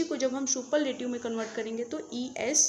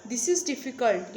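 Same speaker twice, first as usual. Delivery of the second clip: slow example sentence; much slower than usual. Shown as a demonstration. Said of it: "यानी यह कठिन है".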